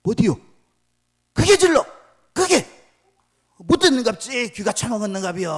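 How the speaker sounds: very high, very loud Jeolla taunting yell; Jeolla dialect yell. Acted. Elijah with a staff yelling in Jeolla dialect at Baal's prophets. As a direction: scream the taunts in Jeolla dialect while rapping heads. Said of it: "앞에 가가지고 ... 이렇게 하는 거예요".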